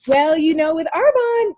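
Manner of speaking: playful teasing lilt, rising high on Arbonne; light joking sales hint; smiley and fun. Retold or imitated. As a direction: toss it off with a grin to a coworker. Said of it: "smiley and fun".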